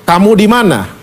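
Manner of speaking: God's mild searching question; searching, not angry. Retold or imitated. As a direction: ask without anger, looking for someone lost. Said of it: "Dia mencari".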